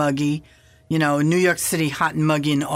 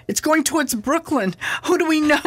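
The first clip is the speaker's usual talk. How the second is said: yelling to John; 10 semitones higher than usual. Retold or imitated. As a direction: shout it across to him, half joking. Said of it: "I'm yelling to John".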